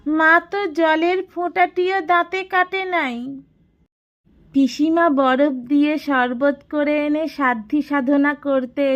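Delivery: put-on agitated boy, voice pitched high; worked up. A narrator's reading. Fatik tells Shachinath of his mother's fast, worked up. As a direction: blurt it out with heated feeling. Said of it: "উদ্দীপ্ত গলায় বলে উঠল".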